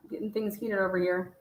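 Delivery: soft unvoiced aside; gossipy whisper. Real, not acted. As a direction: whisper it like a secret. Aside while reading texts.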